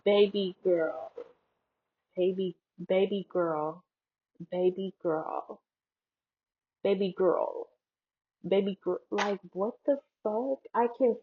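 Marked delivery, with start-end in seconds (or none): 0.0-9.0 put-on careful "baby girl" with a full L; every letter pronounced. Shown as a demonstration. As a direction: practise "baby girl" syllable by syllable. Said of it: "pronouncing all the syllables and all the letters".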